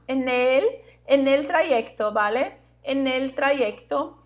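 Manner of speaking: "en el trayecto" run together as one word; linking words. Shown as a demonstration. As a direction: link "en el" straight into "trayecto". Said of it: "Vamos falar rápido".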